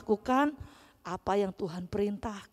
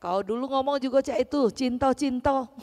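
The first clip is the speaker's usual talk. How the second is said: fast, pushy teasing reproach; lightly hammed-up scolding in dialect; mock scolding; 4 semitones higher than usual. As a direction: jab at him for his broken promise. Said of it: "Tapi Yesus dengan penuh kasih".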